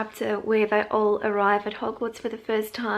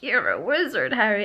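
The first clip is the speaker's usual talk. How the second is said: Hagrid; 3 dB louder than usual. Retold or imitated. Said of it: "the Hagrid ... he's like".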